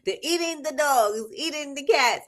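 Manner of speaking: hammed-up eating the cats line; quoting meme. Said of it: "that just popped into my head".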